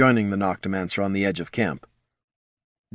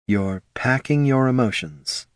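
flatly; 2 semitones higher than usual. Acted. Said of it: "the Solomancer said flatly".

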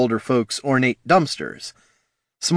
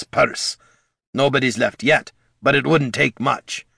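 put-on raised, earnest old dwarf; gruff dwarf voice; 4 semitones higher, 3 dB louder than usual. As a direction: warn like a worried old comrade. Gorm continues warning.

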